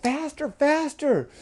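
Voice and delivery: high, drawn-out cheer; excited urging. Acted. Frogs urging boy on the quad, excited. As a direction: egg the driver on in a high frog voice.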